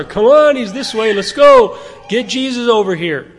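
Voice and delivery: high, eager calling out; excited disciples. Retold or imitated. Disciples calling the crowd toward Jesus, high and eager.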